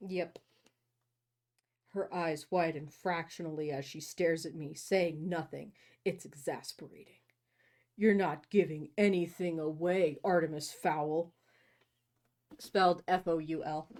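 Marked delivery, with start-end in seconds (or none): 1.9-11.3 low, measured novel reading; story narration. A narrator's reading. Host reading a romance novel to co-host, story narration. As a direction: read it low, in the brooding narrator's part.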